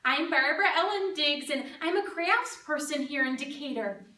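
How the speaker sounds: lightly played chirpy crafts lady giving a speech; lively swings, punching up the key words; Barbara Ellen Diggs. Crafts lady proudly addressing the Junior Chamber of Commerce, lightly hammed-up.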